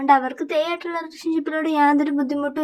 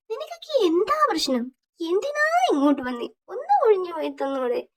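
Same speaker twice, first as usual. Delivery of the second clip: annoyed; 4 semitones higher than usual. Acted. Annoyed friend scolds intruders.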